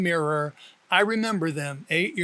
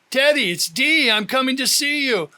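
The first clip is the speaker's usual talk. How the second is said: higher, louder urgent announcement; urgent call; 7 semitones higher, 5 dB louder than usual. A narrator's reading. Dee phones Teddy before the typhoon, higher and louder. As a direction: tell him you're coming now.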